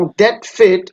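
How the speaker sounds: that fate said slowly, with fate stressed; drawn-out that fate, weight on fate; slow stressed demo. Shown as a demonstration. Teacher reading a line aloud for the class, slow with fate stressed. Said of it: "ফেট শব্দটি হচ্ছে stress".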